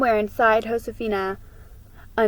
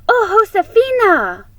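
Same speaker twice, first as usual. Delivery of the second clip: put-on higher, louder girl's exclamation; excited interruption; 12 semitones higher, 11 dB louder than usual. A narrator's reading. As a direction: cut in eagerly.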